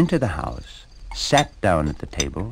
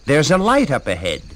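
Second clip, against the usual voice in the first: calling down; 5 semitones higher, 6 dB louder than usual. A narrator's reading. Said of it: "called down".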